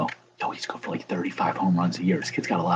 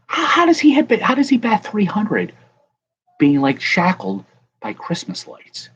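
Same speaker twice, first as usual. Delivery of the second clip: much higher and louder, incredulous; amazed disbelief; 11 semitones higher, 6 dB louder than usual. Real, not acted. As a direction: marvel out loud at the absurd card. Amazed at Trout card.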